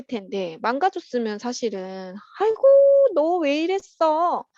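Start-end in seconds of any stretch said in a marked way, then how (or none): 2.4-4.4 mock nagging mother. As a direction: play an exasperated mum scolding, not loud. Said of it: "잔소리할 수 있지만". (잔소리하는 엄마 흉내)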